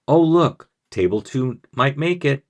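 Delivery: loud game show host aside; chirpy host hiding disappointment; disappointed host voice. Shown as a demonstration. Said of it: "in my best disappointed host voice".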